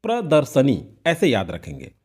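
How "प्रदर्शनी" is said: प्रदर्शनी with "sa", not "si"; model reading. Shown as a demonstration. Teacher shows students how to read it, model reading. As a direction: say प्रदर्शनी as pra-dar-sa-ni. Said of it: "तो आप पढ़-, पढ़ेंगे कैसे इसे?".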